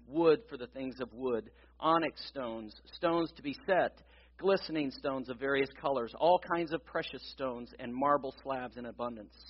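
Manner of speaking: scripture reading. Acted. Reads the scripture passage aloud.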